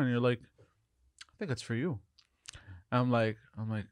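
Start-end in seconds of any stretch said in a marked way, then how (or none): 0.4-2.0 slow, hushed mysterious reply; imitated dream stranger. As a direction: say it softly and slowly, as if cryptic. Voices the stranger in his dream.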